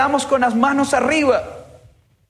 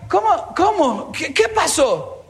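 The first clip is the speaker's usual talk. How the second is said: put-on confused child; 6 semitones higher, slower than usual.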